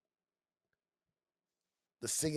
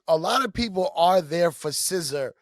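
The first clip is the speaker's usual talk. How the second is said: New York accent, scissors said as scissor; just your natural New York way of saying scissor; 3 semitones higher, 3 dB louder than usual. Real, not acted. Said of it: "That was the most New York accent I've ever heard from you".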